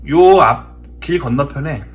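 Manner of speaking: normal talking voice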